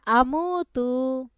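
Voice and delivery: drawn-out, measured Arabic syllables; recitation for repeating. Shown as a demonstration. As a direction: model it slowly for a pupil to echo. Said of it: "বলেন".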